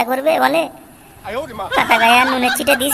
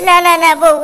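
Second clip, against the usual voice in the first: panicked plea; 3 semitones higher, 5 dB louder than usual. Acted. Husband begging wife to stop.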